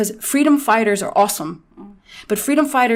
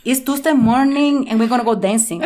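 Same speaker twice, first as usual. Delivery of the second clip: put-on Latino accent. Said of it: "I think the Latino accent".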